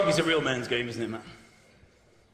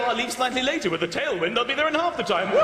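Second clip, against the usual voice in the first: mock delight. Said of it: "People see that and go".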